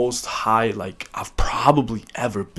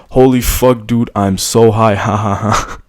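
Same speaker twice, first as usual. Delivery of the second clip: stoned; 5 dB louder than usual. Retold or imitated. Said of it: "So I wrote down in my notes".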